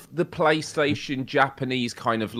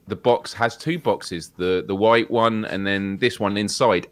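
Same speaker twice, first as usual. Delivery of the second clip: calmly; 2 semitones lower than usual. Retold or imitated. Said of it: "she says very calmly".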